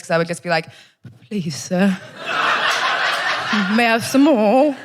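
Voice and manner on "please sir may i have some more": pleading little orphan asking for seconds; Oliver Twist. Acted. Comic re-enactment in bed, timid begging voice. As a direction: beg politely, question lifting at the end. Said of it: "reenacting Oliver Twist".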